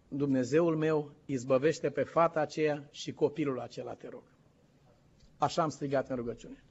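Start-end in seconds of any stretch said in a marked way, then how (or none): 0.1-4.2 quiet retold prayer. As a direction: pray it under your breath. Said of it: "Am vorbit calm și liniștit". (rugăciune șoptită către Dumnezeu, mai încet)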